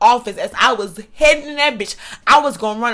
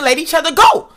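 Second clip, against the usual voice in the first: higher, retold holler; insistent pitched-up demand; mock scream; 5 semitones higher, 4 dB louder than usual. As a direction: act out screaming at moderate volume. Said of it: "we both screaming".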